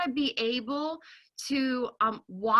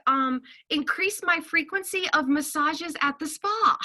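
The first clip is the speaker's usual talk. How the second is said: higher, playfully indignant, laying down terms; fine, then you owe me, said with sass; mock bossy demand; 4 semitones higher than usual. Mom tells the stay-at-home order what it owes her, mock-bossy. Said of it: "I'm like".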